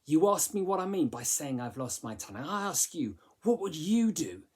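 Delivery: accusing reading, stress on "You" with a falling tune; frustrated and bitter, pushing "you" hard; accusatory. Shown as a demonstration. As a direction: jab the word "You" at the listener. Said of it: "quite finger pointing".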